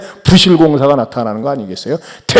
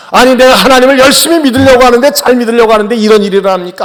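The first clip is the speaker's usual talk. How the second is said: louder, fast indignant grumble to God; complaining outburst; 4 semitones higher, 4 dB louder, faster than usual. Retold or imitated. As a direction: whine at God as if wronged. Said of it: "하면서 원망하는 거예요". (하나님께 큰 소리로 빠르게 따지듯 원망하는 말투)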